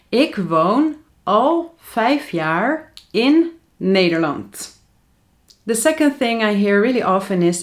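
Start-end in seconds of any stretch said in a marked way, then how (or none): 0.1-4.8 「Ik woon al vijf jaar in Nederland」を一語ずつ、ゆっくり丁寧に発音; slow careful model sentence. Shown as a demonstration. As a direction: spell out each word slowly for the learner. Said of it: "So the correct sentence is".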